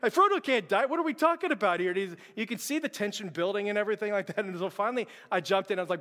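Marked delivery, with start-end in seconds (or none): 0.0-1.9 imitating son's protest. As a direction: kid refusing the ending. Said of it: "he's like".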